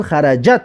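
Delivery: "خرجت" as xarajat, ending on a bare t; original sukun ending. Shown as a demonstration. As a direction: close "خرجت" on the t with no vowel after it. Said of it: "اما در اصل". («خرجت» با تای ساکن در آخر)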